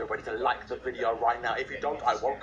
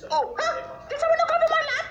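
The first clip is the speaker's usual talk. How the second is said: loud high frustrated yell; frustrated shout; 6 dB louder than usual. Real, not acted. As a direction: yell it out, exasperated. Frustrated then mimicking granny.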